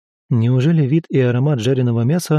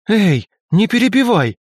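sharp cry; 8 semitones higher than usual. A narrator's reading. Lika yelling at Velga to stop interrupting, sharp cry. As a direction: cut her off, don't interrupt. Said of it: "вскрикнула Умари".

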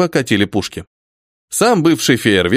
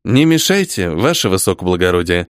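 through gritted teeth; 8 semitones lower than usual. A narrator's reading. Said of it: "процедил я сквозь зубы".

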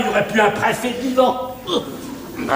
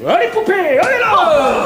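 shout; 10 semitones higher, 4 dB louder than usual. Real, not acted. Shooing the maid away.

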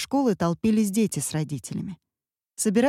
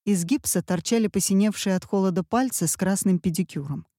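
ordinary delivery

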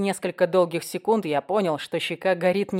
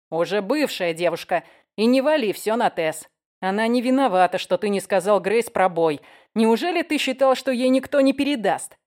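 angry scolding; 2 semitones higher, 3 dB louder than usual. Acted. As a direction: scold him hard.

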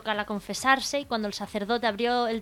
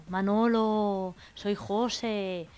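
slow ghostly voice; much slower than usual. Acted. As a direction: stretch the name slowly like a spirit. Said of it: "oye una voz de ultratumba".

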